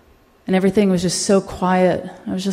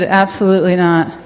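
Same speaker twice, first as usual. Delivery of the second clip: laughing through tears; 4 dB louder than usual. Real, not acted.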